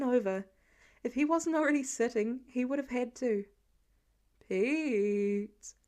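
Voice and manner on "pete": nearly sung, tender; tender sing-song. Acted. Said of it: "Clint nearly sang it, tone tender".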